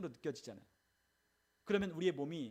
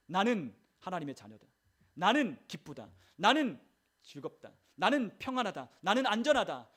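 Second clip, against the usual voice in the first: firm declarations, each 나는 punched loud; confession of faith; 7 dB louder than usual. Shown as a demonstration. Believer confesses faith against dark feelings, emphatically declaring. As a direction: hit every 나는 hard, then let the phrase fall. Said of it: "믿음으로 고백하는 거죠".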